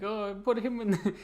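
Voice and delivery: high, drawn-out eager plea; imitating your own excited inner voice; eager thought. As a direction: blurt it high and slow, as a keen fan. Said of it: "I always think, like".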